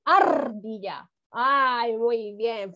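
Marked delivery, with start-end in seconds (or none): 0.0-1.1 slow ARDILLA, the R rolled hard and long; strong R. Shown as a demonstration. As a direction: hold the trill in Ardilla.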